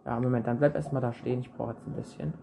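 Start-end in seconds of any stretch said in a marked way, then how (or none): 1.4-2.3 whispering. Real, not acted. Busy digging, muttering aside.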